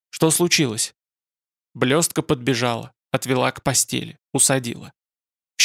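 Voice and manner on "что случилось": sleepy hoarse voice. A narrator's reading. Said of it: "хриплым спросонья голосом".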